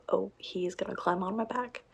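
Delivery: hushed whisper. Real, not acted. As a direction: whisper it under breath. Cat climbing on her back.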